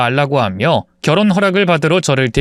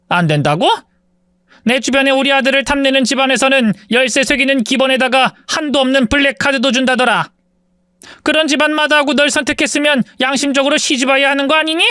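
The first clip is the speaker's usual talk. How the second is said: high-pitched, condescending scolding; scornful mother-in-law; 9 semitones higher than usual. A narrator's reading. Mother-in-law scorning the poor bride, much higher and condescending. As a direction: talk down to her like she owes you.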